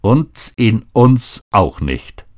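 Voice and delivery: slow, bitter retort; mother answers daughter with slow mild bitterness. Acted. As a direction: let the bitterness drag out slowly. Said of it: "sagte ihre Mutter bitter".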